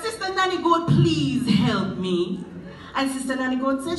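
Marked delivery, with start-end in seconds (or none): 0.0-2.4 pleading call. Acted. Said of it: "So Anansi cried out".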